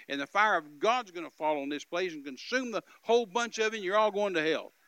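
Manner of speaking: fed-up missionary laying down the law; mad. Retold or imitated. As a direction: build from firm speech to a loud threat. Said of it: "so tired and so mad".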